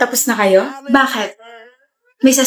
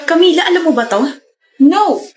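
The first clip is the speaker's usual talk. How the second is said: higher-pitched accusing question and denial; confronting; 5 semitones higher than usual. Acted. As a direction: demand an answer, pitched up. Confronting friend about shared boyfriend.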